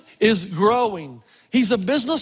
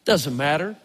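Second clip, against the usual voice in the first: grandma's taunt; 9 semitones lower, slower than usual. Retold or imitated. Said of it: "she looked at me and said".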